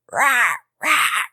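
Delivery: husky croak imitation. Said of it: "before you were like".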